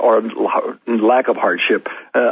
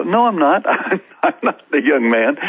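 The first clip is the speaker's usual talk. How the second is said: higher-pitched retold protest; arguing back; 4 semitones higher than usual. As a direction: mildly argue back, pitch lifted. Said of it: "You're already arguing".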